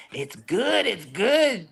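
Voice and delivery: soothing the worried wife, acted; a touch of mock reassurance; voicing the relatives. Mexican family voiced reassuring.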